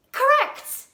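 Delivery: high, ringing announcement; loud triumphant shout of approval. A narrator's reading. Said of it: "shouted the letterman".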